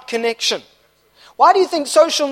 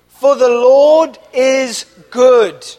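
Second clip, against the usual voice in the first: call to repeat; 5 dB louder, much slower than usual. Shown as a demonstration. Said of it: "Say that with me".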